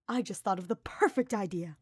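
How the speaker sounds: light up as the idea lands; a touch of bright excitement; beaming. Acted. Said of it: "he beamed".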